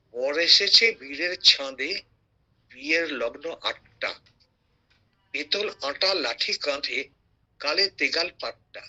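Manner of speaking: slow, rhythmic poem recitation; poem recital. Acted. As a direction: recite the verse beat by beat. Recites Sahaj Path poem.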